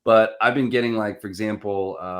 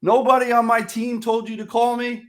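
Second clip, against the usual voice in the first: much higher, louder disbelieving question; incredulous prospect; 14 semitones higher, 5 dB louder than usual. Retold or imitated. Prospect asking again in high, loud disbelief. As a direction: squeak it in disbelief. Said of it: "he's like".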